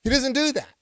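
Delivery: high, loud insistence; preaching at full force; emphatic preaching. Real, not acted. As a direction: hammer it home from the pulpit. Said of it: "repeated emphatic denial".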